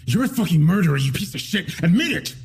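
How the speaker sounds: menacing in the suspect's face; through gritted teeth. Acted. Bad cop inches from the suspect's face, menacing. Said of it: "he said through gritted teeth".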